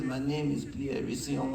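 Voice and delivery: lightly imitated French accent; bad French accent. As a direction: put on a rough French accent. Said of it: "I see a bad French accent".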